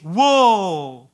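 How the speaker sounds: breezy impressed woe; young people marvelling, light and casual; casual awe. Retold or imitated. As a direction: toss it off like seeing something cool. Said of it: "see a marvelous thing and says".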